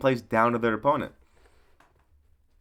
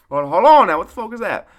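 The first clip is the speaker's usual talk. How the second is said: mock double-take; 8 semitones higher, 9 dB louder than usual.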